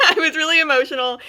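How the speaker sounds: giggling at herself; laughing. Real, not acted. Telling viewers she was emotional, laughing. Laughing about crying over Lego.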